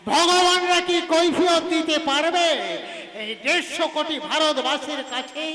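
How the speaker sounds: impassioned stage declamation. Acted. An actor denouncing gangsters who bribe even gods, declaiming. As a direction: ring out the rhetorical questions, building at the end. Opening theatrical speech of indignation.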